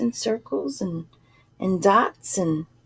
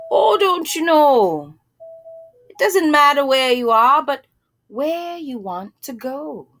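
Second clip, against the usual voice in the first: bearded gentleman; 4 semitones higher, 3 dB louder than usual. Acted. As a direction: tell her as if it's obvious.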